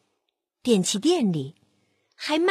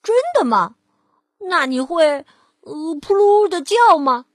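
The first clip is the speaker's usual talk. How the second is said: challenging pig; 3 semitones higher, 7 dB louder than usual. Acted. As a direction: test the wolf with a loud dare. Pig tests the wolf.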